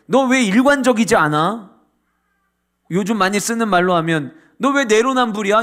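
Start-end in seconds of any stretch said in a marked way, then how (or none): 0.1-1.7 accusing question. Acted. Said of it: "엘리바스는 지금 욥에게". 4.6-5.6 mock accusation. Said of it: "이렇게 얘기하는 거예요".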